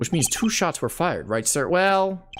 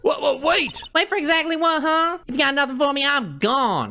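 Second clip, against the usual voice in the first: southern twang; 13 semitones higher than usual. Acted. Streamer voicing Tabby with a Southern twang. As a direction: play her as a Southern belle. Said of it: "She's from the deep south".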